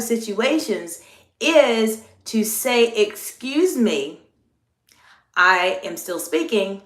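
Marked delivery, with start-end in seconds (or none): 2.9-6.8 slow, measured "Excuse me, I am still speaking"; drawn-out, deliberate correction; lower-toned firm check. Shown as a demonstration. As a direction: hold the floor deliberately against an intentional interrupter. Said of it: "your tone of voice needs to go lower".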